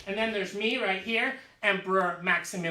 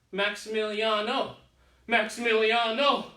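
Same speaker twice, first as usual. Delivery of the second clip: "Maximiliano" repeated, louder each time; building the name; 6 dB louder than usual. Acted. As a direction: roll out "Maximiliano" with growing pride. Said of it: "It has a nice sound".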